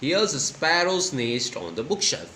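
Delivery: put-on slow, different girl's voice; Nina telling. Shown as a demonstration. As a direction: read it as a tearful little girl. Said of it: "she said".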